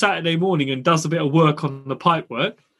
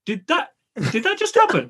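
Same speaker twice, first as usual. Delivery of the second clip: stunned disbelief; 7 semitones higher than usual. Retold or imitated. Recalling the drunk builder's call, stunned and laughing. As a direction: pitch shooting way up in shock. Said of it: "but you're just like".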